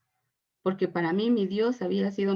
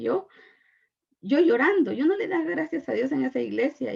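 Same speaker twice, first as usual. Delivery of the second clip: tearful; 5 semitones higher than usual. Real, not acted. Retelling crying in the church.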